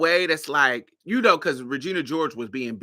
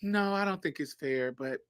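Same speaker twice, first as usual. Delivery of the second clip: breezy deadpan; 4 dB quieter than usual. Retold or imitated. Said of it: "Glinda says".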